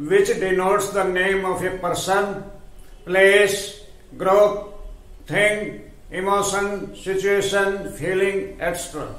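very slow, word by word, for students to write down; slow dictation. Shown as a demonstration. Teacher dictating a definition to students, very slow and clear. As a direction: spell it out slowly so the class can copy.

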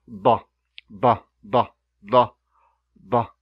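"ba" with one short crisp b burst; plosive ba. Shown as a demonstration. Teacher drilling the plosive ba for learners. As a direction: pop "ba" once and clean. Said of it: "Now let's go to the plosive sounds".

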